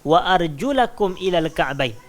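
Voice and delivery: slow, measured chanting of the verse; Quranic recitation. Acted. Teacher recites the Quran verse to students, slow chant. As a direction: recite the verse slowly and reverently. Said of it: "Kan dalam Quran Allah kata".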